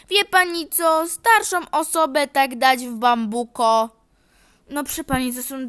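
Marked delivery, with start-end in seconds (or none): 0.1-3.9 hammed-up offended granny; offended old lady. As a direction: play the wronged elder.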